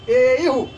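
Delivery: एयुः with the युः hit loud and hard; एयुः said with a strong, forceful युः; stress on युः. Shown as a demonstration. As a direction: punch the ending युः in एयुः. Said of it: "युः में थोड़ा बल देना है".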